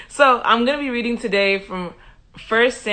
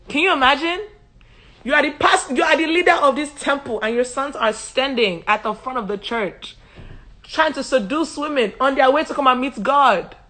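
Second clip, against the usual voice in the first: tag; 5 semitones higher than usual. Real, not acted. Mock outrage at priest's sons.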